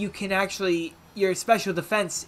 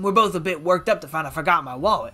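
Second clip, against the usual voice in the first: easygoing fake Southern accent; hammed-up Southern, pitched down; horrible Southern accent; 2 semitones lower, faster than usual. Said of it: "I did a horrible Southern accent".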